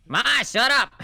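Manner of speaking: high, loud mock yell; exasperated son. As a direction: holler at your embarrassing mother. Acting embarrassed son to his mom.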